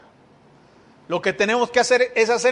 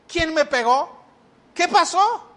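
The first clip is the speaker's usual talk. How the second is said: put-on confused drunk; 5 semitones higher than usual. Drunk waking confused, voiced.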